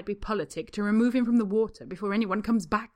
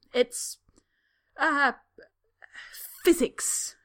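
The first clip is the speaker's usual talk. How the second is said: much higher and louder, proud; triumphant; 7 semitones higher, 7 dB louder, much slower than usual. A narrator's reading. Draco triumphantly explaining the door to the woman. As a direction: announce it like a winning answer. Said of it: "Draco says triumphantly".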